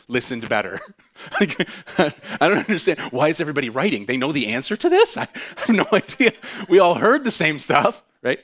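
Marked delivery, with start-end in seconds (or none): 1.4-8.4 confused student. Retold or imitated. Confused student during a test.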